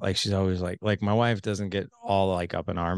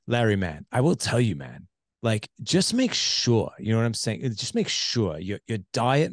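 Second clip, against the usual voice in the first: bad New Zealand accent. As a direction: imitate a New Zealand buddy, stretching the key words. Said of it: "I just did a horrible one".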